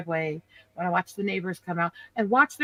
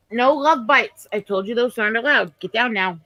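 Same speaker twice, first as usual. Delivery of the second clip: louder firm command to a dog; firm scolding; 6 dB louder than usual. Real, not acted. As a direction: tell the dog off sharply.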